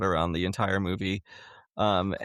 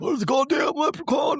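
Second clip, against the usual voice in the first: dumb-sounding voice, very high, shrill and loud; 5 dB louder than usual. Retelling how Ozzy calls the cops: imitating Ozzy calling moronically. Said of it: "in the most fucking moronic way ever".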